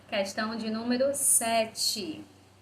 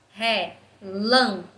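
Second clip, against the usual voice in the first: "Relâmpago" as four loud, slow beats: re, lâm, pa, go; slow, emphatic "Relâmpago" with a pause after each syllable; split into syllables; 6 dB louder, slower than usual. Shown as a demonstration. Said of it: "Quatro sílabas".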